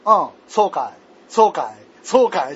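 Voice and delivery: mock an interviewer grumbling his replies; irritated interviewer. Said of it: "ちょっと怒りながらインタビューしてる". (怒りながら相槌を打つインタビュアーの真似)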